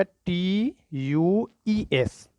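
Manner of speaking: letters spelled out very slowly, one by one; teacher spells each letter slowly for the class; slow spelling. Shown as a demonstration. Teacher stresses the spelling, spelling it slowly. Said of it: "ध्यान दीजिएगा".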